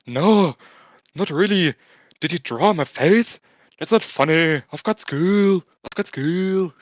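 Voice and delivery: put-on high, hurt child's protest; a small girl upset about pen marks on her face; indignant little girl. Girl waking to find pen glasses on her face, high indignant whine. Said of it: "looking into the mirror and asking".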